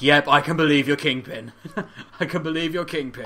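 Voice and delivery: laughing through an emphatic reaction; amused conviction. Acted. Fan reacting to a perfectly cast villain, amused conviction. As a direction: say it loudly, breaking into a laugh. Imagined delighted viewer, laughing between takes.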